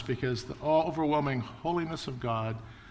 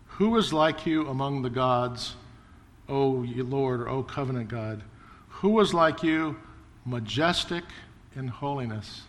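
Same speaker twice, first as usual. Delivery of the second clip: scripture reading. Acted. Reading Moses' song from Exodus.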